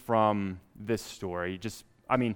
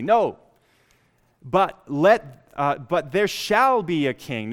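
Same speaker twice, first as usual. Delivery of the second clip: determined shout; 3 semitones higher, 6 dB louder, slower than usual. Retold or imitated. People demanding a king from Samuel, determined loud. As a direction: demand it and don't budge. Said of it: "Notice the determination".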